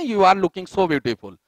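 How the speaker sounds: slow, with beautiful drawn out long; stretched word. Shown as a demonstration. Teacher demonstrating the stretched beautiful to students, very slow. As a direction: stretch every syllable of beautiful. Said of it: "उसी शब्द को आप खींच दो".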